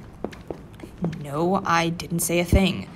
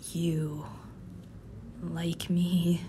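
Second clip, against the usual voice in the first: soft and disbelieving; stunned whisper; 3 semitones lower, 8 dB quieter, much slower than usual. Acted. Hearing her coworker likes her, a stunned soft whisper. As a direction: barely breathe the question.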